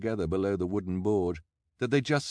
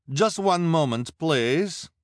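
loud, high appeal over a crowd; urgent stalling; 10 semitones higher, 7 dB louder, slower than usual. A narrator's reading. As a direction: hold them off with a raised voice. Madame Lulu stalls the crowd.

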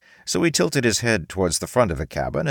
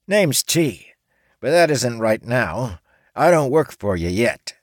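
higher-voiced orc woman, a little nervous; 6 semitones higher, 3 dB louder than usual. A narrator's reading. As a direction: play T as an uneasy young woman caught off guard. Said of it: "began speaking nervously".

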